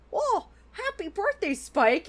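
high-pitched, pleasantly surprised well-wish; happy, friendly greeting. Acted. Junebug greeting Spike on his birthday, friendly. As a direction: greet like you're happy to see him. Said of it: "just nice, like, happy to see him".

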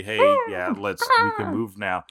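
very high chirpy Pidgeotto voice; high squeaky bird voice. Retold or imitated. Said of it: "like, telling them".

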